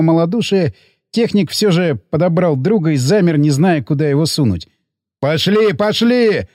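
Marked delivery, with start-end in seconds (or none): 5.2-6.5 mild shout. Acted. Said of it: "заорал ткач".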